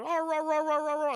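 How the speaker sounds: high, loud mock barks; barking dog. The dog barking at Macbeth, loud mock barks. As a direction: bark like a little dog.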